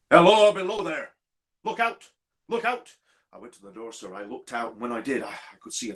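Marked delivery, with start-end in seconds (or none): 0.1-2.9 high, far-carrying call; warning cry. Acted. Signalman re-enacts the cry from the line, calling out. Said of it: "I heard a cry".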